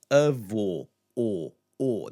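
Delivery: "avô" as "a-VOH", then "o, o"; closed stressed O. Shown as a demonstration. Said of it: "this closed stress sound".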